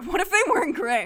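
giggling through the question; laughing. Real, not acted. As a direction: laugh out the words. Mock reading of childhood story.

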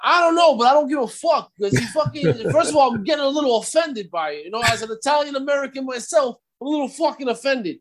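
hammed-up Brooklyn Italian tough guy; a hint of Brooklyn Italian mobster; mock Brooklyn wise guy. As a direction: play the Brooklyn goomba for laughs. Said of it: "talking like".

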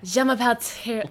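hesitant attempt at a French accent; botched French accent, breaking off; failed French accent. Shown as a demonstration. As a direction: try French and give up midway. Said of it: "no, that's not working".

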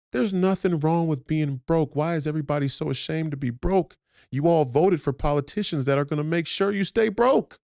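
high-pitched, incredulous outcry; impassioned exasperation. Real, not acted. Ranting at listeners ashamed to be broke, exasperated high outcry. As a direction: plead in a strained high voice, building to the last word.

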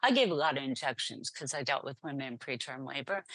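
ordinary delivery

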